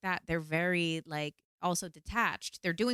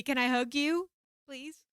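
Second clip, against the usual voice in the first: tender request; 8 semitones higher than usual. Retold or imitated. Asking her rescuer for a hug, tender plea. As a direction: ask timidly for a hug.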